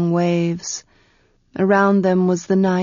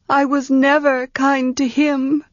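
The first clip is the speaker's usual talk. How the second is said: put-on young woman's voice; 6 semitones higher than usual. Tenar's voice.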